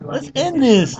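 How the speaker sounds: high rock-frontman voice on Let's end this; rock star voice. Acted. Co-host wraps the show in a rock-star voice. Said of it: "my rock singer impression".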